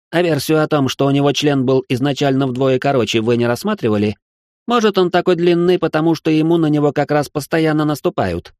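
выше, чопорно и обиженно; отстаивай честь высшего общества; возмущённый аристократ. A narrator's reading. Richard arguing. (аристократ Ричард спорит с Салихом, выше и обиженно)

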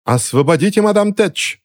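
high-pitched narrated shout; rally supporters with a high, urgent call; rallying cry. A narrator's reading. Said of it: "закричала Джелия своим сторонникам".

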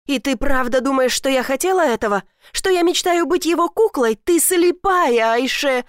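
angry outburst. Acted. Elif shouts at her stepmother, angry and rising. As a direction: hurl the accusation at her.

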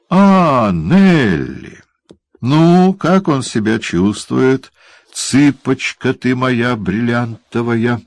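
syrupy leering welcome; gushing dwarf. Acted. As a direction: overdo the delight at seeing her. Quilp greets Nell.

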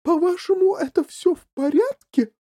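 high, loud outraged mother; indignant. A narrator's reading. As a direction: throw the reassurance back in outrage. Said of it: "возмутилась миссис Ти Ви".

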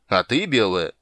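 a menacing turn to her; single her out with menace; threatening. Acted. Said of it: "с угрозой продолжил король".

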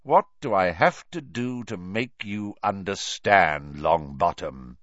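loud scathing teacher; scolding. Acted. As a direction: berate him, cutting and loud. Teacher berating a pupil.

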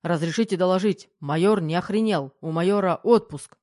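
loud parade-ground report; military report. A narrator's reading. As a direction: sound off like a soldier. Майор рапортует полковнику.

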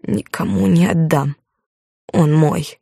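slow, a touch of sobbing; cling to him through mild tears; tearful. A narrator's reading. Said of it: "всхлипнула она".

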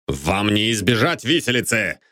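panting exclamation; out of breath. A narrator's reading. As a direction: gasp it out breathless. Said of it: "задыхаясь". (задыхаясь)

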